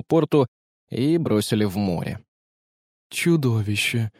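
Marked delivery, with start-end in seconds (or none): 3.1-4.1 horrified exclamation. A narrator's reading. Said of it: "воскликнул епископ".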